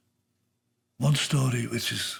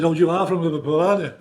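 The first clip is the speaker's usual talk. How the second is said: higher, louder imitation of a royal lady; the Queen; 3 semitones higher, 6 dB louder, faster than usual. The Queen asks a man about Liverpool, imitated high and loud. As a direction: lift it up high, regal small talk. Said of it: "And she said".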